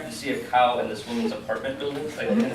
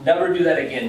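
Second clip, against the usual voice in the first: louder, higher mild telling-off; scolding; 5 semitones higher, 7 dB louder than usual. A narrator's reading. Friend scolds him after the goat photo, mild scolding. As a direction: scold firmly, as a narrated line. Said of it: "she scolded".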